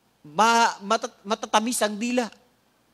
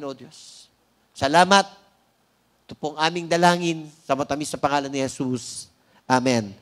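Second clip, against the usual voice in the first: prayer; 3 semitones lower than usual. Acted. Leads the congregation in prayer.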